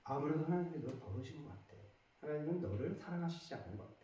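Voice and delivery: soft, low voice sowing doubt; insinuating whisper. Acted. Tempter telling a believer that God has left, insinuating whisper. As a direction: murmur it like a tempter at the ear. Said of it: "더 다시 속삭여요".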